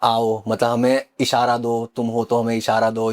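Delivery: slow, drawn-out call to a spirit; mock séance invocation; slow summoning call. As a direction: coax the spirit out slowly, like a séance. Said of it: "आवाज़ ले गए".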